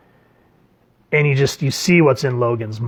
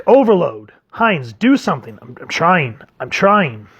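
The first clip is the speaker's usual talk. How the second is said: panicked shouting; 3 semitones higher than usual. Acted. Panicked crew calling out.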